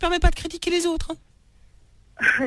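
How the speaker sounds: a man putting on a woman's voice; man faking a woman on the phone; mock woman's voice. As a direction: play the jealous new girlfriend, mildly put on. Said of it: "T'es pas un peu travesti sur les bords?".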